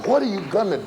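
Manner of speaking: high, loud ringing question; urgent climax. Acted. Preacher pressing the congregation, high and loud. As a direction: hit the top of the question hard.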